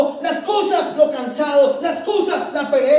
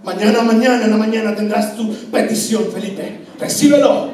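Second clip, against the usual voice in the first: lower, grave divine voice; solemn voice of God; 4 semitones lower, 4 dB louder than usual. Pretend. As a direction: speak as God, solemnly granting. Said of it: "el Señor a mí me mire con seriedad diciendo". (Dios hablándole a Felipe con voz grave y solemne)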